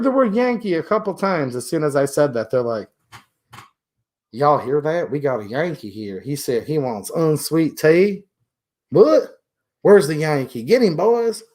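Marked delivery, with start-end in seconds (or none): 4.3-8.2 imitated Southern local passing word along; mock Southern local spotting an outsider; Southern accent. Retold Southerners reacting to a Yankee. 8.9-11.4 mock-alarmed Southern local, pitch jumping up; rally the boys in a put-on Southern accent; imitated Southern posse call. Retold Southerners hunting the Yankee.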